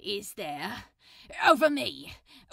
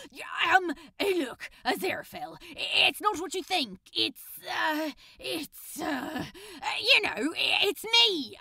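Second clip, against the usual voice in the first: flustered stammer; 6 semitones higher than usual. Acted. Flustered excuses when caught.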